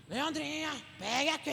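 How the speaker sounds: imitating a man's fierce way of talking; gruff scolding. Leandro calling Leandrinha over, gruff mock scolding. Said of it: "Fala bravo assim".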